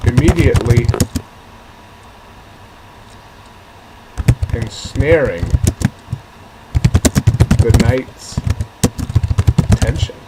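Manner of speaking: slow, loud, word by word with long pauses; spaced-out dramatic delivery. Shown as a demonstration. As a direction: drop each word like a drumbeat. Dramatic reading of a sentence.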